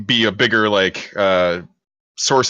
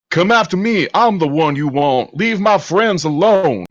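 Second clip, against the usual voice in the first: acted yelling; 8 semitones higher, 3 dB louder than usual. Player's character provoking nature away from friends, acted yell. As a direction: call out high, stretching the last words. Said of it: "start yelling".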